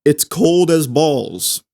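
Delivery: cold as balls said slowly; slow demo. Shown as a demonstration. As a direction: give the English phrase slowly. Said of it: "In English".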